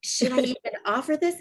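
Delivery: unsure, asking carefully; hesitant offer ending on a rise; tentative question. Retold or imitated. Mom unsure whether to suggest oils, hesitant. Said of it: "she said it like a question mark".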